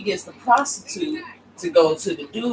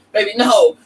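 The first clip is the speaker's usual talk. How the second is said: mock pleading queen; 4 semitones higher, 8 dB louder than usual. Marie pleading with the king.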